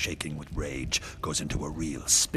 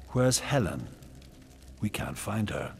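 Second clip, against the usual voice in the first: demanding shout; 4 semitones higher than usual. Acted. King demanding.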